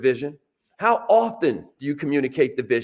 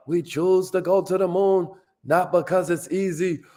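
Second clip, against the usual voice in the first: put-on Boston accent, raised pitch, speechmaking cadence; JFK; 4 semitones higher than usual. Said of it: "That's my Boston accent".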